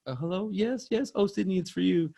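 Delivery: high, hammy phone-call acting; mock melodramatic high voice; overacting actress. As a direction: overdo it like a bad horror actress. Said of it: "acting over, overacting".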